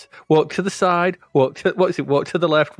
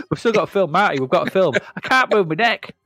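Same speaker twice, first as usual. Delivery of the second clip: higher mock complaint; Marty; 5 semitones higher than usual. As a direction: whine it as a put-on quote. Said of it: "Although he's Scottish".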